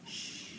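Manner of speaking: sh as a pure hushing sound, no vowel; sh held briefly by itself; digraph sound. Shown as a demonstration. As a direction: say only the sh sound. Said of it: "it's gonna say".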